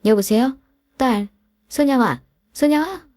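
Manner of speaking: mother calling out to her daughter on a silent line, frantic; anxious calling. Acted. Mother calling into dead phone.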